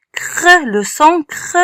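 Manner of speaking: "cr" as one blended consonant sound; son isolé. Shown as a demonstration. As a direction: sound out "cr" without spelling the letters. (« cr » prononcé comme un seul son)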